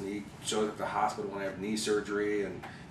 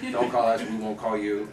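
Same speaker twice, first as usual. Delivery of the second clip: louder brush-off with weight on don't; dismissive brush-off; 6 dB louder than usual. Shown as a demonstration. Telling a hopeful actor off, a loud curt brush-off. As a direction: snub him firmly, punching don't. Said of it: "Don't, no".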